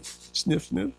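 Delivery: two fake self-pitying sniffs; mock sniffling. Preacher mocking his own self-pity, fake sniffles. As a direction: sniff as if feeling hard done by. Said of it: "I'm feeling sorry for myself".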